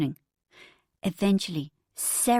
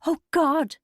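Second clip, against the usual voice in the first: higher, louder gasp; gasping through laughter; 8 semitones higher, 4 dB louder than usual. Acted. Bridget gasping with laughter at the identical rips. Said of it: "gasped Bridget".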